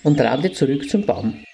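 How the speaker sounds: put-on lively storytelling for children; fairy tale narration. A narrator's reading. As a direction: read it like a bedtime story to little kids.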